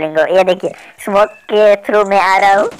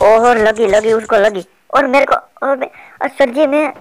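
higher, rushed surprise at being hit; excited outburst; 4 semitones higher than usual. Real, not acted. Gamer reacting as the shot lands and he gets hit, excited outburst. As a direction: blurt it out in a sudden rush, pitched up.

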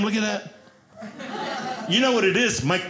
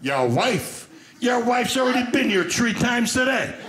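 put-on Italian accent; 5 semitones higher than usual. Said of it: "they're Italian".

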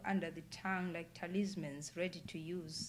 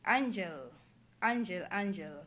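louder, insistent calling; Anne Fosterlina calling louder; 4 dB louder than usual. A narrator's reading. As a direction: raise your voice on each repeat. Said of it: "raising her voice even louder".

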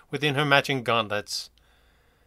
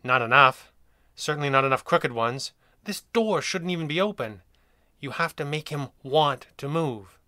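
horrified. Acted.

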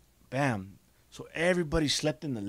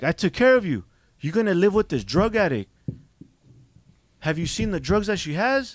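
loud, higher hurt protest; retold angry pleading; 4 semitones higher, 5 dB louder than usual. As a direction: argue with hurt anger. Aunt pleading angrily.

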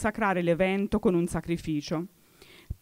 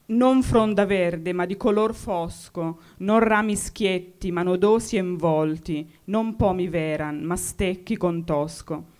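poem recital. Acted. Recites Dante's verses slowly.

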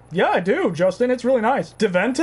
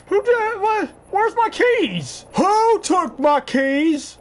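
yelling across the room; 8 semitones higher, much slower than usual. Real, not acted. Panics over lost keys.

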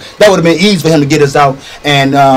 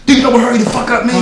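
laughing; 5 semitones higher, faster than usual. Acted. Laughing at slow partner.

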